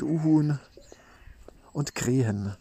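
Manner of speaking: breathy whisper trailing off. Real, not acted. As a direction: whisper the last word. Listing bird sounds, whispered.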